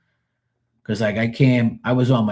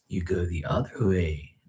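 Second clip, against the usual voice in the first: whispered aside; 4 semitones lower, 8 dB quieter than usual. Real, not acted. Driver explaining parking, in a sudden whisper.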